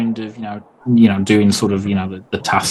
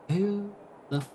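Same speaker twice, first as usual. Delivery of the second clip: baffled dad; 8 semitones higher, 11 dB quieter than usual. Acted. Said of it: "he looks at your mates and he's like".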